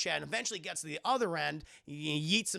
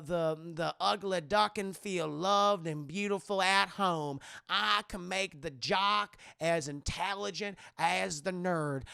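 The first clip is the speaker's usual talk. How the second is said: alien queen; 4 semitones higher, 6 dB louder than usual. Retold or imitated. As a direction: coax him like a creepy queen tempting a kid. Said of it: "And she's like".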